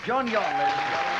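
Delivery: announcer's call. Real, not acted. Host sending off a contestant to applause, announcer's call. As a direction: call out the act over the applause.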